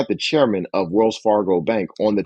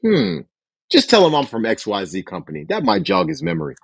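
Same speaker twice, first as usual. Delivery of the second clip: authoritative tone; 6 semitones higher than usual. Shown as a demonstration. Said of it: "Remember to keep a tone of authority".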